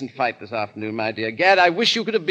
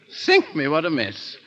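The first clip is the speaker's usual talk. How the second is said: foppish squeal. Acted. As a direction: shriek at the cravat like a dandy. Fop's squeal at cravat.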